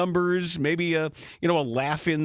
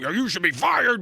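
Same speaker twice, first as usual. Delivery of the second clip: a half-laughing mock yell, a bit higher; mock scream; 6 semitones higher than usual. To the guest, a mock yell while laughing. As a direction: jokingly yell the firing line. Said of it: "I wouldn't scream".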